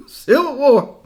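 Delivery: laughing as it is said again. Real, not acted. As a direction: chuckle through the words.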